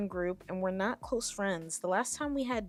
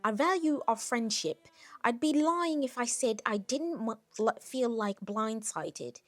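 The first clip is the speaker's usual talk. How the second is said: stumbling, badly faked Australian; hammed-up Australian, a little loud; attempted Australian accent; 3 semitones higher, 4 dB louder than usual. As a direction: try an Australian accent and fumble it. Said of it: "Should I be doing an Australian accent?".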